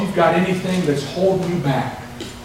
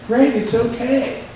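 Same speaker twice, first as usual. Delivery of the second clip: higher, slow, reassuring retold words; dying father gladly reassuring his son, retold; imitating grinning father; 7 semitones higher, slower than usual. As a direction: say it slowly through a grin, pitched up. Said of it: "I mean, he grinned".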